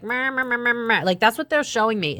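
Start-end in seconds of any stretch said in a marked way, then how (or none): 0.0-1.0 droning wordless whine; Charlie Brown adult voice. Retold or imitated. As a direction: mimic the muffled adult drone. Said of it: "the Charlie Brown where it's like".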